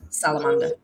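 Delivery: rising unsure guess; uncertain. Real, not acted. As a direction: question it, unsure. Unsure recall of book point.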